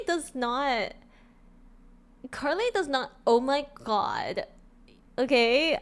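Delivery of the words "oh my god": put-on slow, drawn-out valley girl; lightly voiced California girl, stretching it; lazy California drawl. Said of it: "Carly would not say an".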